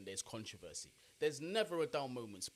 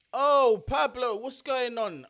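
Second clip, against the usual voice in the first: loud, high-pitched shout of delight; light up and call his name out loud; excited greeting; 12 semitones higher, 16 dB louder, slower than usual. Real, not acted. Streamer greets Pablo arriving in the chat, loud and excited.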